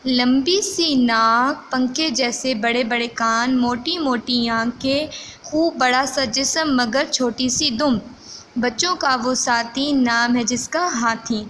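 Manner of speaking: measured read-aloud, phrase by phrase; slow rhyme recitation. Acted. Teacher reads elephant riddle to pupils, slow recitation. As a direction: recite it slowly for young pupils.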